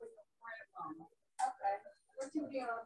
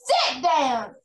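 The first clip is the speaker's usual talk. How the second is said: teacher's yell; 2 semitones higher, 5 dB louder than usual. Acted. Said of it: "she yelled".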